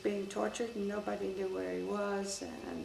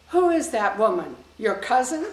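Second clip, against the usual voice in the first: laughing retold question; 3 semitones higher, 13 dB louder than usual. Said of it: "Hardin Degi said".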